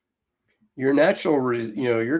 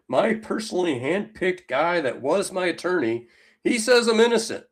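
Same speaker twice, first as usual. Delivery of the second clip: mock Trump; 5 semitones higher than usual. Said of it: "voicing Trump mockingly".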